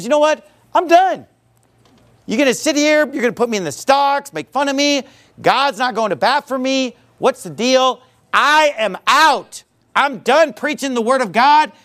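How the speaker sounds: fed-up quitting rant, high-pitched; Jeremiah. Acted. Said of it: "he's just ready to throw in the towel".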